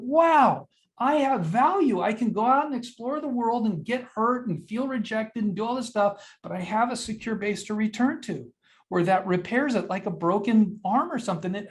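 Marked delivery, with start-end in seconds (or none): 0.0-8.5 delighted realization. Retold or imitated. Voicing child's reassured inner thought.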